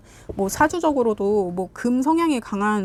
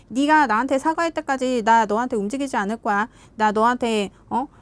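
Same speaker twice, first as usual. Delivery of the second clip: put-on childish sulking partner. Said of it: "애새끼처럼 군다고".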